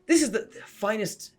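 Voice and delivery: loud, high-pitched gushing awe; floored amazement. Acted. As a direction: proclaim your astonishment at the top of your voice. Floored character marvels at new cloak.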